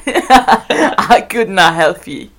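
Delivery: very slow, drawn-out mock Scottish; Scottish accent. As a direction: stretch the Scots refrain out for laughs. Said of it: "attempting the accent".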